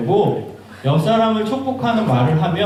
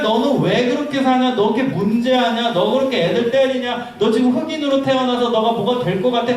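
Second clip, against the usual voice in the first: higher-pitched retold berating; mock scolding; 5 semitones higher than usual. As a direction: voice a run of nagging reproaches, lightly acted. Acts out people scolding a boy.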